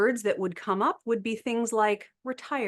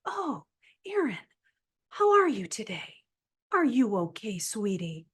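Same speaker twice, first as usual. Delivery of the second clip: mock the way people coo at the elderly; patronizing elderspeak. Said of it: "if that was how I was spoken to".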